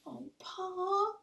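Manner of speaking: high, near-tearful plea; pleading. Acted. Little Laura pleads with Pa, high and near tears. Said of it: "Laura pleaded".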